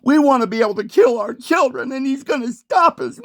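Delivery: rising into a high fake sob; hammed-up indignant woman whining; mock disgust. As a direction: parody outrage that breaks into mock crying. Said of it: "with this disgust in her voice".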